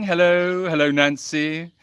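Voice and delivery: hellos held long on level notes; oddly drawn-out greeting. Real, not acted. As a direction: stretch out each hello oddly. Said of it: "why I said it like that".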